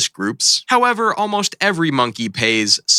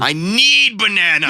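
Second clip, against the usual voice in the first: desperate shout; 8 semitones higher, 3 dB louder than usual. Acted. Monkey skit voices.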